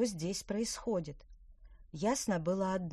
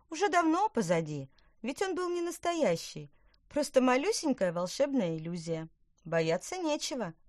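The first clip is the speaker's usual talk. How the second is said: little witch voice; 7 semitones higher, 4 dB louder than usual. Acted. Witch reassures the fish.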